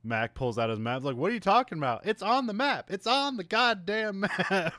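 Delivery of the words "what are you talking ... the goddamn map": high, loud indignant protest; imitated exasperated arguing, pitched way up; mock exasperation. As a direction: insist on it in hammed-up outrage. Acting out Mac arguing over the map.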